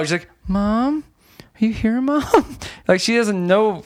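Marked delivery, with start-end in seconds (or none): 0.4-2.6 half-hearted calling, not raised to a yell; Kara voice, no trying. Retold or imitated. Daughter looking for mom, half-hearted unraised call. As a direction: call out with no effort at all. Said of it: "no, no trying, whatever, in this Kara voice".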